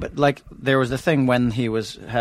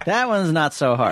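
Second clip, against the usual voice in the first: Morgan Freeman with a lisp; 4 semitones higher than usual. Shown as a demonstration. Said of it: "Morgan Freeman with a lisp".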